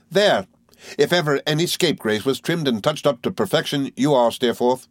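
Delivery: high, quick, chattering little woman; Miss Mowcher voice. Acted. Mowcher chattering to the boys, high and merry. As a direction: rattle on like a gossiping dwarf.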